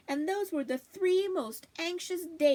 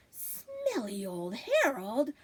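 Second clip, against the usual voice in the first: indignant; much slower than usual. Acted. Dog indignant at the insult.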